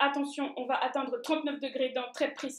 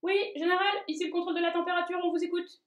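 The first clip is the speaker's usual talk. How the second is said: high operator voice; 5 semitones higher, faster than usual. Acted. Temperature control answers.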